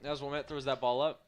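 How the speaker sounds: talking through a yawn. Real, not acted. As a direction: yawn while saying it. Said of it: "Apologies for the yawn".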